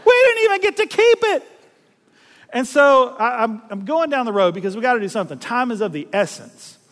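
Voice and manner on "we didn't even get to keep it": much higher, louder mock-redneck whine, laughing; hammed-up hillbilly lament, speeding up; fellow redneck. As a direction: play the disappointed good ol' boy. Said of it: "in true fellow redneck fashion".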